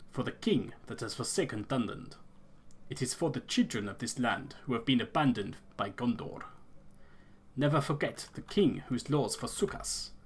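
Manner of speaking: Elder in a lightly put-on rustic accent; solemn clan elder in a hammed-up accent; a hint of a bad fantasy accent. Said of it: "this fucking accent I'm going for".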